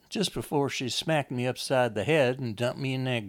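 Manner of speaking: apologise, then press the grievance; insistent, wounded Lizzie. Acted. Lizzie tells Enoch of Wanda's gloating, insistent and aggrieved.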